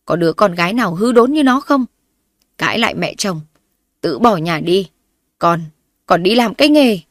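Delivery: loud indignant tirade; father angrily listing his daughter's disgraces; angry accusing father. Acted. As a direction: hammer each fault in rage.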